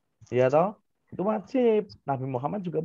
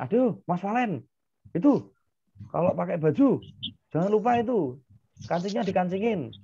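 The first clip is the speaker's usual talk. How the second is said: nagging mom; 4 semitones higher than usual. Retold or imitated. Teacher voicing a nagging mother.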